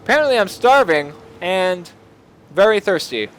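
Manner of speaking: talking while chewing apple; mouth full. Real, not acted. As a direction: speak through a bite of apple. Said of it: "I'm eating an apple at the same time".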